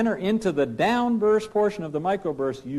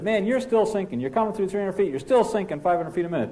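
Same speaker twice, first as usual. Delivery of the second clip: higher, pressing sink callouts; copilot warning; 5 semitones higher, faster than usual. Acted. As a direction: keep warning that the sink goes on. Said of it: "and he says".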